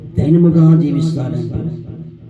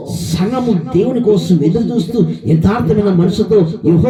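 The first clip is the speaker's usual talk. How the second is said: raised, unbroken preaching flow; impassioned preaching; 4 semitones higher than usual. Acted. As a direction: press the exhortation on without a break, pitch lifted. Preaches in a sustained urgent run. (ఆవేశపూరితమైన ప్రసంగం)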